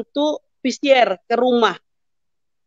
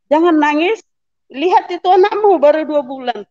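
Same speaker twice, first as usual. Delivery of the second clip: raised-pitch motherly pleading; urging, retold; 5 semitones higher than usual. Mother urges child not to cry, pleading. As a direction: press the point, retold plea.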